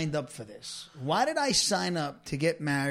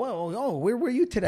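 mock surprised; 4 semitones higher than usual. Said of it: "I go".

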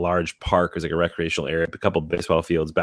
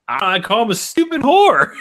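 put-on sheepish kid confession; 12 semitones higher, 3 dB louder than usual. Kid confessing to mom, retold.

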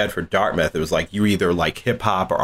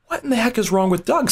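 high, bewildered mock alarm; 13 semitones higher, faster than usual. Hearing noise from the roommate's room, high and bewildered. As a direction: play your own baffled worry. Retelling his alarmed reaction.

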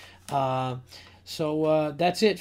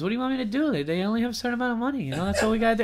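Goodfellas guy impression; 7 semitones higher, much faster than usual. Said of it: "he talked like that on the phone".

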